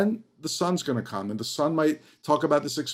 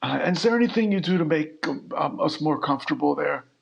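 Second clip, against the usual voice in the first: horrible, bad put-on elderly voice. Posing as a senior citizen on a phone call: horrible put-on senior citizen voice. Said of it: "posing as a senior citizen doing a, what, what turned out to be just a horrible voice".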